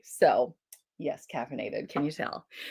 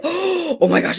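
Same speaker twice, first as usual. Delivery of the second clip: excited; 10 semitones higher, 7 dB louder, slower than usual. Real, not acted. Sudden idea, gasp.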